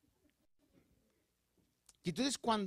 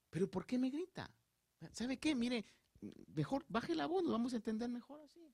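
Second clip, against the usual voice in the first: higher, slightly softer, reassuring; calm reply; 4 semitones higher, 4 dB quieter than usual. Shown as a demonstration. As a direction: talk the shouter down gently. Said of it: "Dígale".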